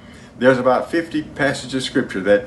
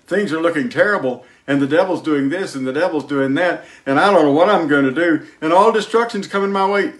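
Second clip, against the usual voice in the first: whining complaint; 5 semitones higher than usual. Retold or imitated. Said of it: "if you say".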